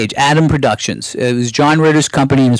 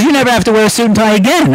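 quoting Bob Myman; 8 semitones higher, faster than usual. Retold or imitated. Bob Myman advising him, voiced.

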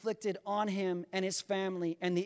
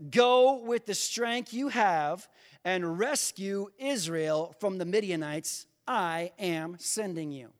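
slow, weighty commission; solemn divine command; 3 dB louder, slower than usual. Acted. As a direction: give the order slowly and deliberately. Preacher voices the Lord's command.

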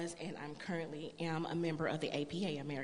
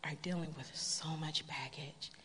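whispered therapist. Retold or imitated. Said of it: "And she said".

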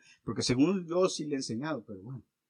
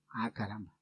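1 mock dismay; 8 semitones lower, 3 dB quieter than usual. Pastor's mock dismay at accusation.

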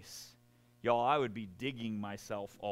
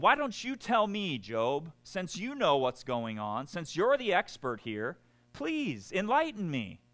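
sarcastic God; 5 semitones higher than usual. Acted. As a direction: needle Job with sarcastic questions. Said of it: "I like the sarcasm".

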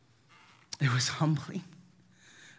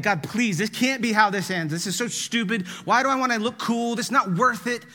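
higher, mildly panicked plea; frantic mock prayer, building higher; retold freaking out; 5 semitones higher than usual. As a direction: act out pleading in a panic, pitch climbing. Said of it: "I'm freaking out".

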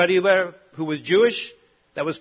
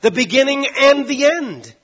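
proclaiming Jesus; 9 semitones higher, 8 dB louder than usual. Acted. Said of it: "records Jesus saying".

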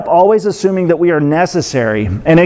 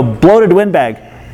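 slow, stress on bloated; trying an inflection; much slower than usual. Shown as a demonstration. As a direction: lean on "bloated" slowly. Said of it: "no way to inflect".

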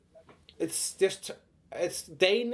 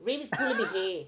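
high, loud mock Australian whine; Heartbreak High impression; 9 semitones higher, 5 dB louder than usual. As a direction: yelp it like a teen soap Australian. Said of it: "impersonation of, uh, Heartbreak High".

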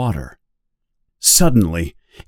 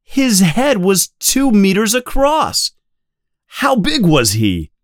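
excited; 10 semitones higher than usual. A narrator's reading. Hooper excited about shark.

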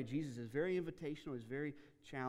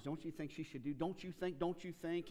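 needling challenge; 4 semitones higher than usual. Retold or imitated. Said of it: "Martha is saying".

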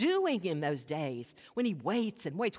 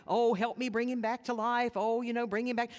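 1 mock pleading prayer; 3 semitones higher, 5 dB louder than usual. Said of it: "He doesn't pray".

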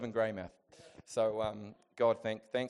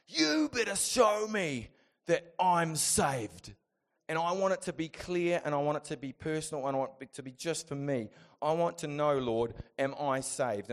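raised, loud re-enacted demand to God; angry demand; 4 semitones higher, 5 dB louder than usual. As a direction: plead forcefully, starting high and loud and easing down. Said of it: "'cause I got angry at God".

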